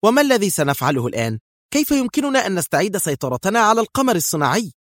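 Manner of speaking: rising, agitated questions; irritable demand. A narrator's reading. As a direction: press him anxiously, pitch climbing. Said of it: "وقالت في عصبية".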